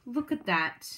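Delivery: ordinary delivery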